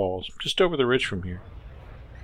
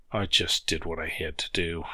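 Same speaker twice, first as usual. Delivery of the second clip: low, soft words pushed through clenched teeth; admitting it with gritted teeth; 3 semitones lower, 6 dB quieter than usual. Acted. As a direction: hold back the emotion. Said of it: "through gritted teeth".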